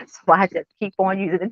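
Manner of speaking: says it aloud through a laugh, a bit quick. Real, not acted. Admitting to viewers she keeps using it, laughing. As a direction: laugh it off as you repeat it.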